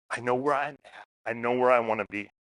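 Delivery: soft, relieved sigh of a line. Retold or imitated. Traveler finding the bathroom map, softly relieved. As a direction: let the relief out quietly. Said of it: "this relief of".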